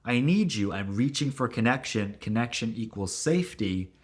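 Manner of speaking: a hint of a clingy partner calling out; pleading partner. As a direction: reach out anxiously for a partner. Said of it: "this response that goes".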